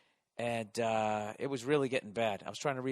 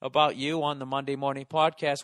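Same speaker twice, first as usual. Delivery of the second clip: sheepish prayer to God; 2 semitones higher, 5 dB louder than usual. Retold or imitated. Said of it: "hedge my bets going".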